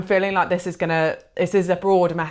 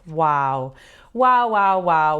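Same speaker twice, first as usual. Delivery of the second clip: awed wow; 5 dB louder, much slower than usual. Real, not acted. Moved by card's message.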